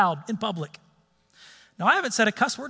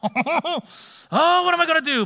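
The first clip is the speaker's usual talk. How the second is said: laughing disbelief; 8 semitones higher, slower than usual. Retold or imitated. Laughing at absurd fix advice.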